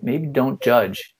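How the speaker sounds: unbothered. Retold or imitated. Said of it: "I'm like".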